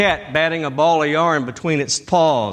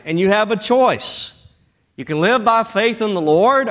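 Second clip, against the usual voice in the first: preaching; 5 semitones higher than usual. Acted. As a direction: preach it up to the congregation. Preaching at full force.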